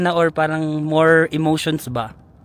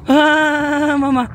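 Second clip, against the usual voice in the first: high, loud scream for mama; frightened scream; 10 semitones higher, 7 dB louder, much slower than usual. Real, not acted. Rider fears falling, loud high scream. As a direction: cry out as if falling.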